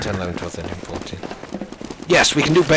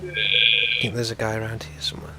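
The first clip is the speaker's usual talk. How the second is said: whispering; 7 dB quieter than usual. Real, not acted. Sneaking up on enemy.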